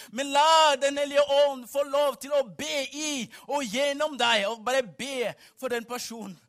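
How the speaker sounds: loud, urgent call to prayer; full-force preaching. Acted. Preacher urging congregation to pray for neighbours, full-force preaching. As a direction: urge the congregation at full volume.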